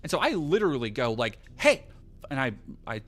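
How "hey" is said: sharp high call to stop them; yelled hey in head voice. Retold or imitated. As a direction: call out hey over the crowd. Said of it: "I'm using head voice".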